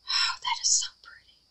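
soft, breath-only admiration; awed whisper. Real, not acted. Hushed admiration of her work.

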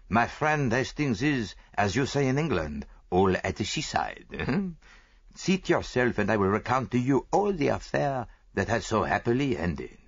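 lightly voiced Belgian detective; a hint of a French-accented Poirot; Hercule Poirot. Poirot speaks in story.

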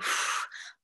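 soft blow on fingertips; blowing on fingers. Shown as a demonstration. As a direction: blow air over hurt fingers. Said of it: "blow my fingers".

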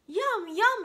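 high, loud delighted yum yum; exclaiming yum. Acted. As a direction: smack your lips for the food. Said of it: "exclaimed Pooh".

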